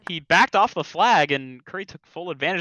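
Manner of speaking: high, loud and fast; excited. Real, not acted. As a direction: still hyped after the play. Excited replay call.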